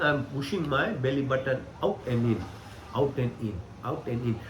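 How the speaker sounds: talking on a held breath; holding breath. Real, not acted. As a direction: squeeze words out with no air. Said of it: "So when I hold the breath".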